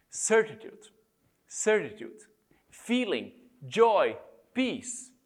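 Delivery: measured reading with weighty pauses; solemn reading aloud. Acted. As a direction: read each phrase as its own declaration. Reads an old written quote.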